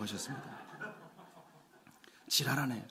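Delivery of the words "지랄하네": lightly imitated earthy Gyeongsang dialect; Gyeongsang dialect grandmother. Preacher repeating grandmother-in-law's retort, in homely Gyeongsang dialect. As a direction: toss off a homely Gyeongsang granny curse. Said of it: "경상도 사투리로 아주 구수하게".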